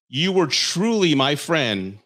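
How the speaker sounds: slow, mock-sincere reading; mock heartfelt. Mocking his text, slow fake sincerity. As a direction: lean on truly with fake sincerity. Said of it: "I thought he said stranger".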